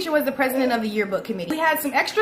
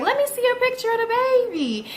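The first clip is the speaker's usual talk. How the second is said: higher, insistent request; demanding; 8 semitones higher than usual. Retold or imitated. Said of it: "So I was like".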